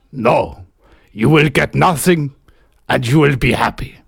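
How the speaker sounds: put-on accented Santa Claus refusing. Santa refusing a Christmas wish, put-on accent. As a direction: deny the request in a put-on accent. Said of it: "I think the accents are about the best".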